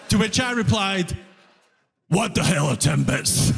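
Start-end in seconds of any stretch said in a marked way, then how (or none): 2.1-3.5 low, bewildered what the hell; deadpan confusion at a strange word; baffled question. Retold or imitated. New immigrant baffled by a customer's question, low and bewildered.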